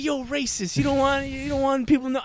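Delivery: high-pitched mock accusation; accusing girl. Girl accusing him after he refuses, high mock accusation.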